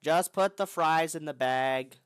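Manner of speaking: loud slow meme delivery. Pretend. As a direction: belt it out, drawn out. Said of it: "repeating the same meme".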